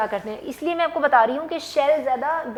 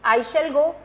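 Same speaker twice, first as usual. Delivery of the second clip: slow dictation; 4 semitones higher, 7 dB louder, much slower than usual. Shown as a demonstration. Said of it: "जैसे मैं लिखती हूँ यही sentence".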